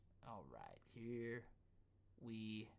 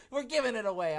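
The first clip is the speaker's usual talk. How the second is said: laughing; 9 semitones higher, 11 dB louder than usual. Retold or imitated. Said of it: "They're like".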